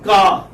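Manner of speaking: loud "Car" with a long open vowel, no R; silent final R. Shown as a demonstration. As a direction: drop the R at the end of "Car". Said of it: "It's not pronounced".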